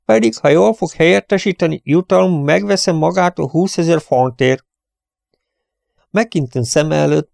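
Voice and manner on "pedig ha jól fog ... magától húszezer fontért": cheerful prince. Acted. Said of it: "felelte jókedvűen".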